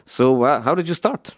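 lightly impersonated manager, rising at the end; hint of his voice, lifting the question; Jose Mourinho. Football manager quizzing the impressionist, light impersonation. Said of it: "he asked me the question".

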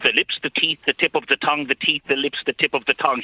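crisp, evenly beaten diction drill; every consonant carefully placed; elocution exercise. Retold or imitated. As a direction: recite it like an articulation warm-up. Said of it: "the teacher said to me".

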